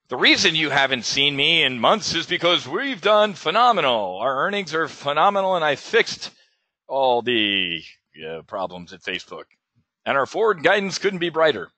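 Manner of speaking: lightly voiced boasting executive with swinging pitch; mock company boast. Trader mimics Facebook touting its earnings to investors, mock company boast. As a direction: play up a glowing earnings announcement.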